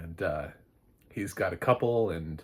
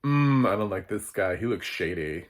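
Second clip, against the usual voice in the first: suspicious; 6 dB louder than usual. Pretend.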